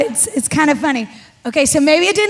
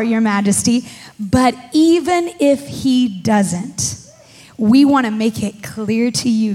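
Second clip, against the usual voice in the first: measured Bible reading, slowing on key lines; solemn reading of Daniel; scripture reading; 2 semitones lower than usual. Acted. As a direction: read the passage with weight. Reads scripture aloud.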